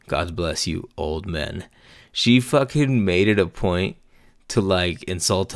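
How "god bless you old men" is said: quieter snide blessing. Retold or imitated. Recalling how the girl said it, quiet snide blessing. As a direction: say it under your breath, sweetly mean. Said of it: "how did she say it?".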